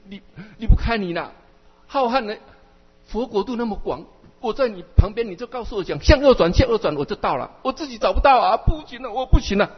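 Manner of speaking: mock-helpless whine; clingy pleading disciple. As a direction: beg like a child who won't leave. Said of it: "我说".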